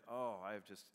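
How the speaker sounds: low, soft, lightly put-on contentment; a touch of blissful calm; retold relaxed reply. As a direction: imitate someone lazily at ease. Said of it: "I'm like".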